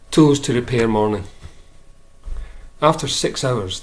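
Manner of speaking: measured recital, each line set apart by pauses; poem reading. Acted. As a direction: read it as verse, settling on each refrain. Reads a poem.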